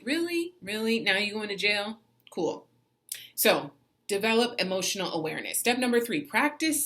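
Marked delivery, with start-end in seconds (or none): 0.0-2.6 mock disbelief. Mocking road-rage fools.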